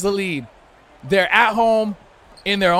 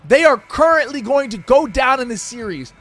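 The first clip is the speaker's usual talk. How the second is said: hyped announcer calling the game; play-by-play commentary. Pretend. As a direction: narrate the action like a broadcaster.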